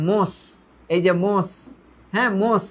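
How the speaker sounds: মস ending on a hissed English s; s-sound shown. Shown as a demonstration. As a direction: repeat মস with a held s. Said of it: "এস এর মতো উচ্চারণ".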